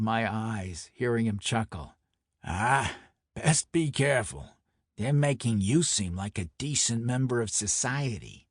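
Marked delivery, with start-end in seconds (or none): 2.4-8.5 lightly voiced Brooklyn mobster; mock-caution him like a wiseguy; a hint of amused mobster; teasing Brooklyn enforcer.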